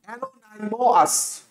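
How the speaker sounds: অ্যানোনাইমোয়াস softly as ano-nai-mo-as; spelling pronunciation. Shown as a demonstration. Teacher repeating the memory aid, soft spelling pronunciation. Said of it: "সঠিক উচ্চারণ কি হবে?".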